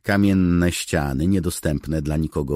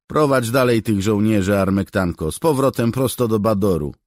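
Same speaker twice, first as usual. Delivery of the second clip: higher, louder, proud cat's voice; the famous cat answers with lofty disdain; 8 semitones higher, 10 dB louder than usual. Acted. Legendary cat answers the soldier, proud and dismissive.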